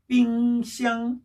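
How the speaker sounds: "삥샹" slow, two level held notes; double first tone. Shown as a demonstration. Teacher drilling fridge for students, "삥샹" slow level tones. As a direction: stretch "삥" and "샹" without moving pitch. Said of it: "냉장고 다시 한번 해볼까요".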